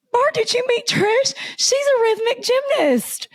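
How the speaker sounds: high, bright mock-excited announcing; excited introduction. Olympian introducing a fake gymnast to a friend, excitedly, high voice. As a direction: gush as you introduce a new friend. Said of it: "she turns to Bart Connor and goes".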